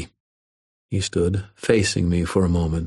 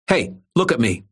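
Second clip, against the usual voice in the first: high, hard snarl; a bullied kid snarling at his tormentor; 6 semitones higher than usual. A narrator's reading. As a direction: demand his eyes on you. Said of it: "Irwin snarled".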